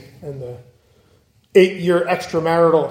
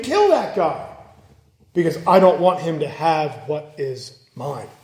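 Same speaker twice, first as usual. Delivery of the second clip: petty king; 3 semitones lower than usual. Retold or imitated. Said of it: "here he is later on in life saying".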